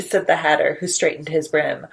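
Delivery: lilting, rhythmic storybook read; sing-song picture book narration; reading to children. A narrator's reading. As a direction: read it like a bedtime rhyme to little ones.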